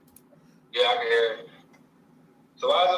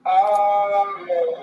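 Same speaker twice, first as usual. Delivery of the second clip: pitched-up chipmunk effect; 4 semitones higher, 5 dB louder, much slower than usual. Real, not acted. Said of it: "that's like a girl".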